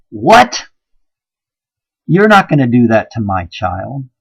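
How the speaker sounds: mock protective father. Preacher voices the fighting father women reject, lightly defiant. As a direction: bark it like a father standing up for his child. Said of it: "not men that go".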